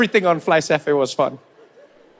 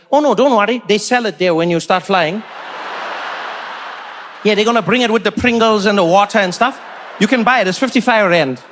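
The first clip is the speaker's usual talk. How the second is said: deadpan neighbour. Retold or imitated. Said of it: "this man was like".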